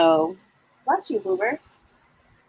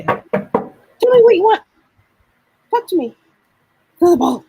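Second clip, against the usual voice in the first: much higher, slow, pleading pup; eager dog voice; 13 semitones higher, 5 dB louder than usual. Pretend. Psychic voicing the client's dog begging to play ball. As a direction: beg like an excited dog wanting play.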